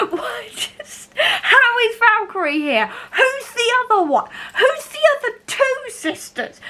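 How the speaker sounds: high, giggly fangirl squeal; screaming fangirl. Real, not acted. Fan reacting to Valkyrie's surprise return, squealing. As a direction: squeal through laughter in real disbelief. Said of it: "absolutely screaming fangirl".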